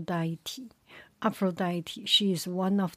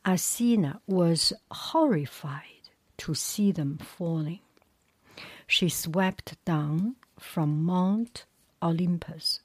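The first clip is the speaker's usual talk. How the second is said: story narration; 4 dB louder than usual. A narrator's reading. Reads the story aloud.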